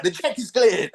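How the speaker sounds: P=A; cheering. Retold or imitated. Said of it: "we'd be like".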